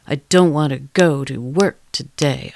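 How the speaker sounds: another rhythm. Shown as a demonstration. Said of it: "in a million different rhythms".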